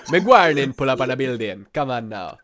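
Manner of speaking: put-on Jamaican accent; mock Jamaican patois voice. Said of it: "roadman doesn't just mean Jamaican".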